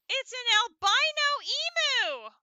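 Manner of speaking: loud, high burst of excitement; excited exclamation. Real, not acted. Player spotting an albino emu, excited shout. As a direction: call it out, thrilled by the find. Spots a rare white emu.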